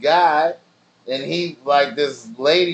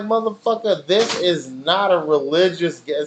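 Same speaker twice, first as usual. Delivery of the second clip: exasperated rant; 3 semitones higher than usual. Retold or imitated. Retold heated rant.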